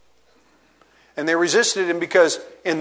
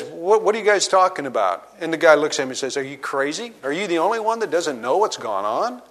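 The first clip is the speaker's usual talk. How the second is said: incredulous; 5 dB quieter than usual. Retold or imitated. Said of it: "I wish I could put the inflection".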